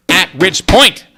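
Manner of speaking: loud, high outburst; loud excited yell. Real, not acted. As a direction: blurt it out too loud into the mic. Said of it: "sorry, I'm yelling into my microphone".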